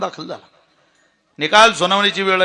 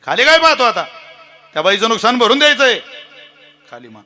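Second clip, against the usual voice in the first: louder, higher stern telling-off; scolding judge; 6 semitones higher, 4 dB louder than usual. Retold or imitated. Judge scolding the cyclist who hangs his head, loud and stern. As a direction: scold him into paying up.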